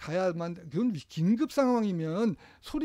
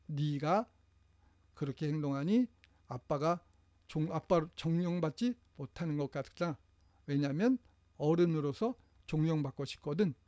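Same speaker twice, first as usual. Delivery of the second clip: softer, calm I-message; calm explaining; 2 semitones lower, 4 dB quieter than usual. Shown as a demonstration. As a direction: explain your feeling calmly to the child. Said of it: "이렇게 얘기를 한번 해보세요". (차분하게 설명하는 아빠)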